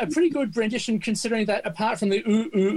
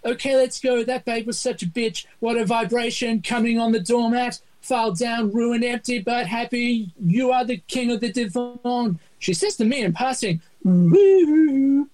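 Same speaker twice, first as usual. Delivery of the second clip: reading lyrics aloud; 4 semitones higher than usual. Retold or imitated. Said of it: "the English translation goes".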